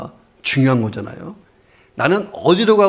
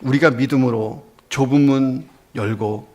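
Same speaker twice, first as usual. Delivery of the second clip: pastor praying aloud over music, rising in fervor; fervent prayer. Acted. Pastor leads the congregation in prayer, fervent prayer. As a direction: build from hushed prayer into full-voiced pleading.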